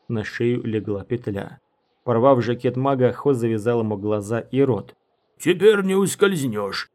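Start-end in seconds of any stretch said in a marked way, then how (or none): 5.4-6.9 slow, smug, pleased voice; satisfied. A narrator's reading. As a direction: savour the win. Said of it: "с удовлетворением".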